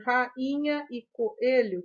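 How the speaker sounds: "rainha e coelho" as ra-inha, co-elho; slight break before the second vowel in "rainha e coelho"; split into syllables. Shown as a demonstration. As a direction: hiatus marked in "rainha e coelho". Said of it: "que também são hiatos".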